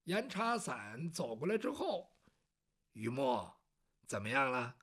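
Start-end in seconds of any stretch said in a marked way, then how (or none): 2.9-4.7 put-on much lower and softer, an older man asking; low elder voice. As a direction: speak like a calm older gentleman.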